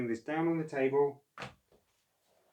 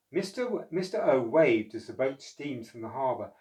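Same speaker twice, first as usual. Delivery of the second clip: put-on lively read-aloud voice for children; storybook narration; 4 dB louder than usual. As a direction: tell it like a bedtime picture book.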